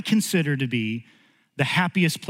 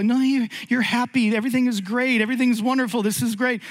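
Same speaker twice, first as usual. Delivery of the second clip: consoling; 7 semitones higher, faster than usual. Retold or imitated. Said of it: "you're trying to console".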